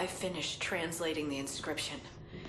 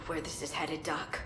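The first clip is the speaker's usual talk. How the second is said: taunting whisper; 5 dB quieter than usual. Acted. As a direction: lean in and threaten softly. Prisoner taunts the doctor.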